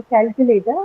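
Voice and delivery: calculator with the CAL stressed; stress on first syllable. Shown as a demonstration. Teacher showing students which syllable is stressed, calculator with stress on CAL. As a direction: lean on the opening CAL of calculator. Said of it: "I would say that the first syllable".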